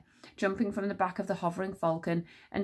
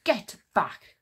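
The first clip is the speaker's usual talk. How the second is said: ordering; 4 dB louder than usual. Acted. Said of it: "ordered Encanso".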